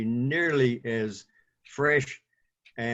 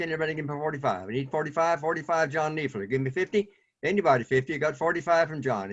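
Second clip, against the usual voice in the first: auctioneer. Acted. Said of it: "puts on his auctioneer, uh, gear".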